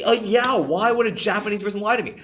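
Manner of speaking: very high, loud mock-innocent mom; imitating mom. Mom voiced in a story.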